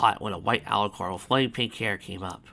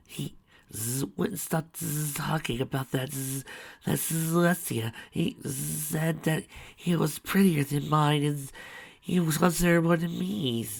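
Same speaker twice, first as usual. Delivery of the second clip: higher, sobbing complaint; tearful higher whining; 7 semitones higher, slower than usual. Acted. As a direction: cry out the hurt.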